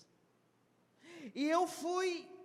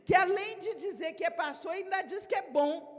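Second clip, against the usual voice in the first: mock indignant gossip, higher and louder by the end; scornful onlooker; 5 semitones higher, 4 dB louder than usual. Onlooker mocking Jesus as arrogant, indignant sneer. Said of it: "Alguém que visse de longe falar".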